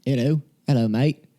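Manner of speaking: lightly voiced Irish-accented "hello, hello, mate"; a half-hearted try at an Irish accent; mock Irish accent. Host tries an Irish accent for Constantine, half-hearted. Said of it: "What's Irish?".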